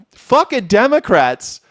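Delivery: high, slow, drawn-out mock reassurance; mock soothing. Streamer mocking pundits, high slow mock soothing. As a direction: coo it like a patronising pundit.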